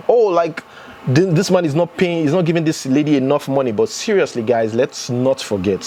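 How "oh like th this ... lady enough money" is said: higher-pitched imagined protest; mock objection. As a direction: pipe up like someone making excuses for her. Voicing what viewers might say.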